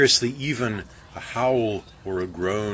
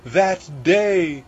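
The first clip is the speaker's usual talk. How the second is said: higher, anxious baker voice; mild fearful foreboding; baker's dread; 6 semitones higher, 3 dB louder than usual. A narrator's reading. Baker confessing his dread to crew, mildly anxious.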